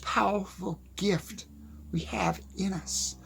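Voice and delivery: said softly, almost to himself. Real, not acted. To viewers, a soft first pass at his point. Repeated line, first take softer.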